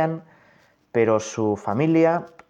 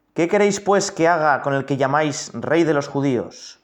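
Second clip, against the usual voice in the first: raised, higher voice of Pilate pleading; Pilate questioning; 3 semitones higher, 4 dB louder than usual. Acted. Pilate asks the crowd what to do, raised. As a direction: lift the voice as Pilate asking the crowd.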